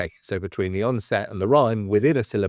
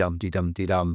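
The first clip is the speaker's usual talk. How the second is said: quick iambic beat on dum-de-dum-de-dum-de-dum, DUM stressed, de light; metrical beat; 3 semitones lower, faster than usual. Shown as a demonstration. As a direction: chant dum-de-dum-de-dum-de-dum as an even poetic meter. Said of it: "constructs the words together to, to hit that".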